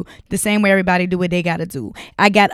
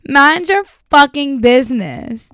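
louder, deliberate telling-off; firm repeat; 4 semitones higher, 4 dB louder than usual. Acted. To her listeners, a loud, deliberate telling-off. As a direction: say it again and mean it this time.

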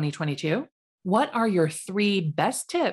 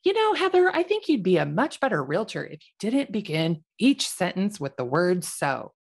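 Spanish teacher. Retold or imitated. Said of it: "And she never once said".

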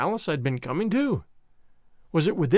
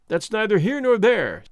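louder, higher, angry retort; indignant comeback, voice raised a little; growing wrath; 4 semitones higher, 4 dB louder than usual. A narrator's reading. Youth at the door to man with blunderbuss, growing wrathful. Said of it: "I was growing very wroth".

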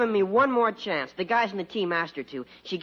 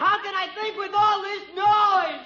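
frustrated outburst; 14 semitones higher than usual. Acted. Son fed up with noise.

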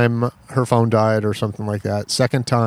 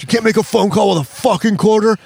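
higher-pitched retold angry outburst; mock outrage; 9 semitones higher than usual. Man throwing back a quarter at the storyteller, mock outrage. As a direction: imitate an indignant man, pitched way up.

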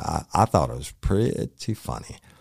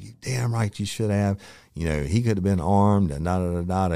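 raised, mock-scolding boss voice; retold scolding; 6 semitones higher, 4 dB louder than usual. Boss chewing out the officer, a mild mock scold. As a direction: rattle it off like an angry boss. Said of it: "he was furious".

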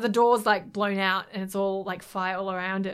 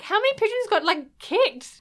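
mock worried; 12 semitones higher, 4 dB louder than usual. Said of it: "I'm like".

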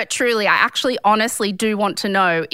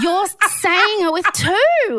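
high, slow, emphatic disbelief; exasperated protest; 10 semitones higher, slower than usual. Real, not acted. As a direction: drag out each word in exasperation. Exasperated, co-host laughing.

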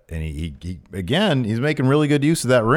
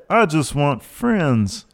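meek sad plea; 5 semitones higher, much slower than usual. Retold or imitated. Quoting meek recruit's answer.

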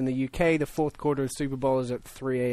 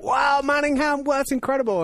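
mock amazement; 12 semitones higher, 4 dB louder than usual. Retelling his instant message reaction.

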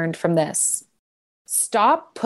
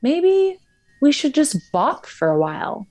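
mimicking boyfriend; 7 semitones higher than usual. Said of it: "And he goes".

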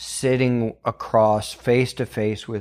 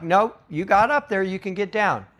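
quoting firm dad; 7 semitones higher than usual. Retold or imitated. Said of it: "I'm like".

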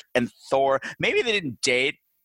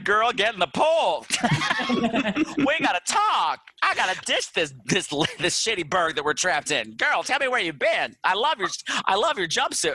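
higher-pitched, hammed-up gossipy girlfriend; Hilda; 4 semitones higher than usual. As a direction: gush like an imagined best girlfriend. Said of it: "Hilda's probably like".

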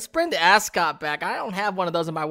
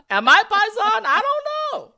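high squeaky laugh through the words; 6 dB louder than usual. Real, not acted. Guest laughs at being asked if he is Paisan, high and giggling. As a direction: giggle the question out, much higher. Laughing at retold Bronx question.

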